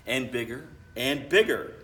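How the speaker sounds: put-on children chiming in with rising excitement; building cheer; joining in, building. A narrator's reading. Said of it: "Trudy and Jack join in".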